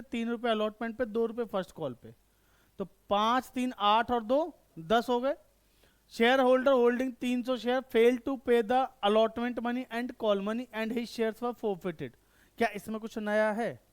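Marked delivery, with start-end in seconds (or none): 6.1-12.2 slow dictation. Shown as a demonstration. Teacher reads question aloud slowly.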